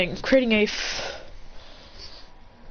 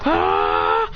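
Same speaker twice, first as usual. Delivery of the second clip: battle cry. Acted.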